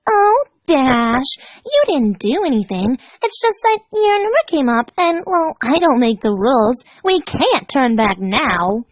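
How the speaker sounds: high, lilting, slowing at the end; sweetly fatalistic Pinkie. Acted. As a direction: gently explain her fate. Pinkie voice in the story.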